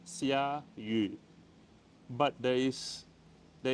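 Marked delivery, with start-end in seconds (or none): 0.1-1.2 "Xia yu" said slowly, xia then yu with a falling tone; teacher modelling "Xia yu" for learners; Mandarin xia yu. Shown as a demonstration. Mandarin teacher clearly modelling the word. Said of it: "rain in Mandarin is called xia yu".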